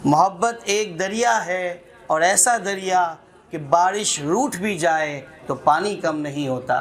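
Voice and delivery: measured, lilting recital with repeated lines; poem recitation. Acted. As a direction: savour each line like a poet at a mushaira. Recites a verse. (नज़्म पढ़ने का अंदाज़)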